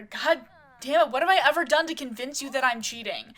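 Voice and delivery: a fed-up husband shouting back; yelling back. Acted. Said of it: "yelling back at her".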